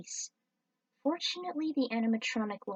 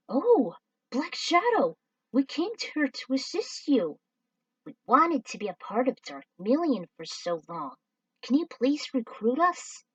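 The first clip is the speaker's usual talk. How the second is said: high, loud, pleading fan voices; squeaky excited sidekicks begging to join; eager alien fans; 5 semitones higher, 5 dB louder than usual. Acted. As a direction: gush like starstruck minions. Voicing eager alien duo.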